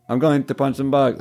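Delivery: Keychain voice. Acted. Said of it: "I'll do it as keychain".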